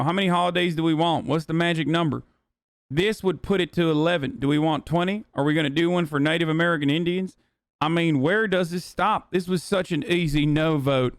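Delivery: lightly mocking put-on politician accent; Ralph Norman. Streamer reading out a congressman's no-vote quote, lightly mocking accent. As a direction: read it as a lightly mimicked congressman. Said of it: "why are you doing that racist accent".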